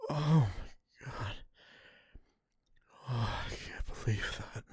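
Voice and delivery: slow, overwhelmed sigh dropping to a whisper; breathless disbelief. Acted. Speaker to partner after intimacy, breathless disbelief. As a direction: let it sink into a hushed, spent whisper.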